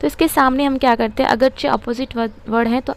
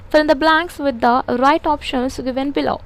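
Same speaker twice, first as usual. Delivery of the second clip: slow dictation; much slower than usual. Shown as a demonstration. Dictating instruction slowly.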